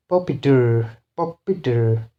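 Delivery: puppeteer with TEER stressed; stress on suffix. Shown as a demonstration. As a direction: push the last syllable of puppeteer. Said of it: "the stress will be on these suffixes".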